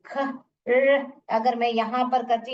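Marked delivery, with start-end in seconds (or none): 0.1-1.1 phonics-style ख... र; sounding out letters. Shown as a demonstration. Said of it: "बोल के देखने".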